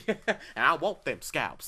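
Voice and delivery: slow, drawled Southern Brad Pitt line, lightly done; a hint of Aldo Raine, slowly; Brad Pitt quote. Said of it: "That's Brad Pitt".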